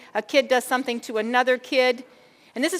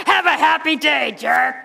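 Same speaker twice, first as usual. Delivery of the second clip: sarcastic mock farewell; 3 semitones higher, 5 dB louder than usual. Mocking rude driver in traffic.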